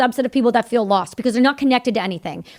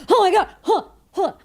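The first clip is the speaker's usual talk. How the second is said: giddy disbelief; 10 semitones higher than usual. Retold or imitated. Guest agrees to come on show.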